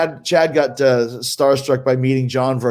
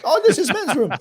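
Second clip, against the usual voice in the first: high-pitched imitation Japanese accent; hammed-up Japanese accent, much higher; mock Japanese accent; 14 semitones higher than usual. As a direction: squeal it in a caricatured Japanese accent. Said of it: "speaking super Japanese".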